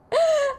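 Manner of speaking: high, sharp gasp of joy; excited gasp. Real, not acted. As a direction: gasp in delight. Right after winning.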